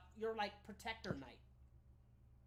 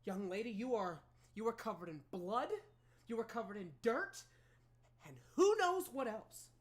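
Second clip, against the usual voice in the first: stern mother; 5 dB louder than usual. Acted. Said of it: "She goes".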